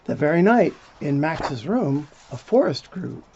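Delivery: put-on lively read-aloud for little kids; storybook reading. A narrator's reading. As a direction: tell it like a bedtime story. Reading picture book to children.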